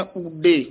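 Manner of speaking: ਊਡੇ pressed firmly; tight ਊਡੇ. Shown as a demonstration. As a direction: push ਊਡੇ hard, then pause. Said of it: "ਕਸ ਕੇ ਬੋਲਣਾ ਹੈ". (ਊਡੇ ਕਸ ਕੇ)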